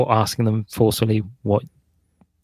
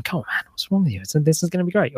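mock exasperation; 6 semitones higher, faster than usual. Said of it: "flipping out and going".

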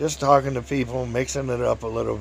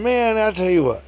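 loud, raised, enthusiastic quote; cheerful, happy; 8 semitones higher, 6 dB louder than usual. Retold or imitated. Blind man warming to his memories, imitated happy excitement. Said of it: "he was real happy".

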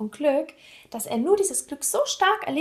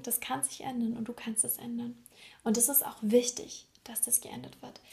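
hushed confiding; 5 dB quieter than usual. Real, not acted. Soft, confiding reassurance to listener.

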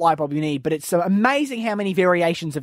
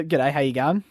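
lower, blokey Aussie greeting; laconic outback drawl; 4 semitones lower than usual. Retold or imitated. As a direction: drop the pitch, play an Aussie tradie. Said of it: "And you, you lower your pitch".

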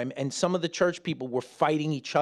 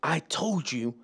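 sulky brush-off; 3 semitones higher than usual. Pretend. Sulky reply to family.

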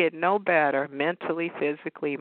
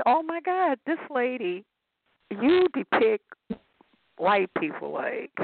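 amazed; 7 semitones higher than usual. Retold or imitated. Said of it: "I'm like".

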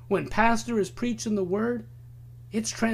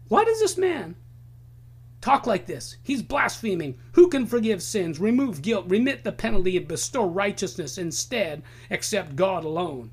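scribes scoffing at Jesus in outrage; indignant scribes. Retold or imitated.

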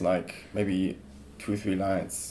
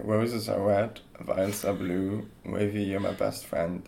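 poem recital. Shown as a demonstration. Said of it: "Say it again, but better".

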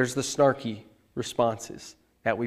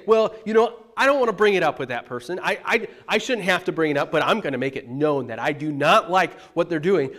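higher, louder, fast mock huffy complaint; passive-aggressive grumble; 3 semitones higher, 6 dB louder than usual. Pastor mimics a passive-aggressive churchgoer avoiding a talk, huffy fast mock grumble. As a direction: play the put-upon churchgoer who won't speak up. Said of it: "oftentimes we say".

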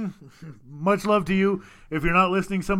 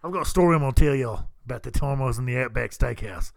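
put-on Australian accent; 5 semitones lower than usual. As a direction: lower mock-Australian storyteller. Australian accent bit after mate.

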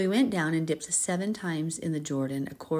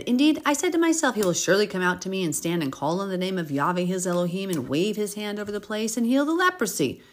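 indignant, higher and louder; furious; 3 semitones higher, 4 dB louder than usual. Acted. Naaman protesting Elisha's instruction in a rage. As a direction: protest it with wounded pride. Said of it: "Naaman became furious".

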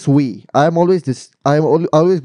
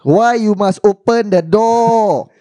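slow emphatic; 4 semitones higher, much slower than usual. Real, not acted. Repeats the point slowly.

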